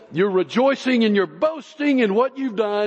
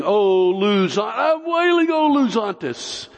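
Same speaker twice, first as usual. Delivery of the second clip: Oluzantes pitched up like a wail; mock wailing; 3 semitones higher than usual. Shown as a demonstration. Preacher imitating a wail through the word. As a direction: let I'm wailing rise into a mock howl. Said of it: "It just sounds like it".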